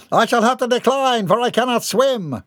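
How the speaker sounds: high, prim refusal; haughty refusal. Acted. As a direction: decline with aristocratic dignity. Haughty boy declines.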